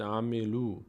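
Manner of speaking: slow "عملو" ending in a long oo; long final vowel. Shown as a demonstration. Teacher showing the hypothetical reading, slow "عملو". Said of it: "اگر ما بعد این چیزی نمی بود".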